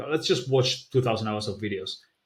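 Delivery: ordinary delivery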